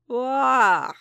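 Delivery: sudden high, loud little creature yelp; a tiny alien child blurting a new sound; baby creature cry. A narrator's reading. Grogu blurts a new sound at Din, high creature yelp. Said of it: "Grogu said, a new sound".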